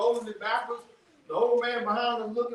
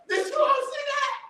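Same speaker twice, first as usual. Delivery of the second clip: laughing shout. Real, not acted. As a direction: call out to the crowd through a laugh. Laughing at own joke.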